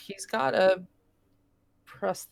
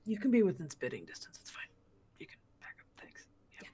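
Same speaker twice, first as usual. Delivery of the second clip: rough, groggy just-woken voice; groggy sleep voice; 5 dB quieter, much faster than usual. Acted. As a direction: mumble it half asleep. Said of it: "groggy sleep voice".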